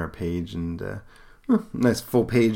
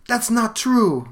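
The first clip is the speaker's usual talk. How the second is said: put-on high, slow, loud Russian-accented protest; put-on Russian accent, drawn out; 6 dB louder, much slower than usual. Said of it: "I'm just giving her this accent".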